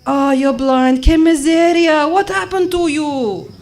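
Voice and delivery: loud lament climbing high; lady on the bus. Acted. Bus passenger pitying blind woman, loud rising lament. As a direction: wail the pity, drawing out the end. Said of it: "lady on my bus".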